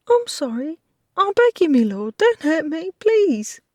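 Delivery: high, loud desperate begging; terrified pleading. Acted. Beaten maid begs her lord for mercy, high and frantic. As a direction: beg him not to hit you again.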